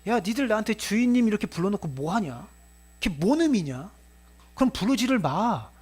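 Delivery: mild acted exasperation of a master; annoyed master. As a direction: lightly scold servants who won't obey. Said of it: "주인 입장에서 화가 나죠". (살짝 화난 주인처럼)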